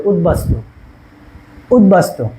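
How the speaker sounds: easy, relaxed উদ্বাস্তু as utbastu; natural pronunciation. Shown as a demonstration. Teacher showing students the natural way to say উদ্বাস্তু. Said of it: "সহজভাবে".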